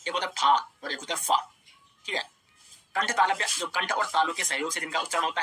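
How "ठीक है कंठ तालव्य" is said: ordinary talk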